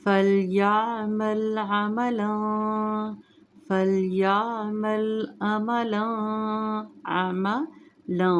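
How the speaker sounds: slow फलयामल, heavy ain; smooth heavy ain. Shown as a demonstration. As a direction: join अमला smoothly, no jerk. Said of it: "आइन को मोटा पढ़ेंगे".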